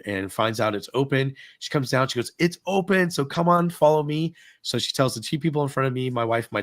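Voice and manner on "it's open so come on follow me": higher-pitched, eager call; calling guests over. Retold or imitated. Cast member calls guests to follow, calling out. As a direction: imitate someone waving people along.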